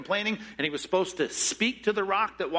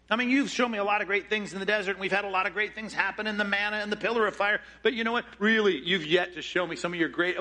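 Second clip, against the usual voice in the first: eager pleading; 3 semitones higher than usual. Pretend. Moses pleading to God.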